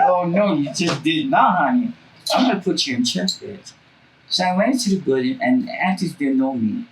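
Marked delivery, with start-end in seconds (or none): 0.1-3.7 sassy telling-off. Retold or imitated. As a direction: put him in his place with attitude.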